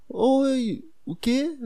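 high, sweet receptionist voice. Retold or imitated. Receptionist answers him in a sweet voice. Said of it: "Ela, uma voz toda doce".

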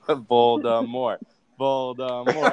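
Voldemort drawn out slowly, no final T; slow, deliberate Voldemort without the T; silent final T. Shown as a demonstration. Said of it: "You don't pronounce the T".

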